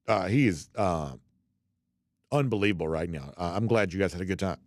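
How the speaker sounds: talking through hiccups; hiccuping between words. Real, not acted. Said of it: "Excuse me, I got the hiccups".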